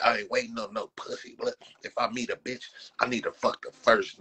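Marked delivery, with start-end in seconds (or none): none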